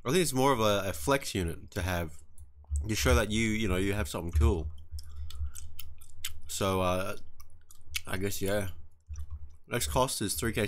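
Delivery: talking while chewing gum. Real, not acted. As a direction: speak around a wad of gum. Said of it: "Sorry, guys, if I'm chewing gum or eating food".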